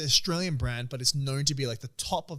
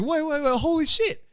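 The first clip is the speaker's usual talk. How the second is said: high, urgent mock panic; retold alarm; 12 semitones higher, 4 dB louder than usual. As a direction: act suddenly alarmed, pitch shooting up. Retold alarm at delivery driver.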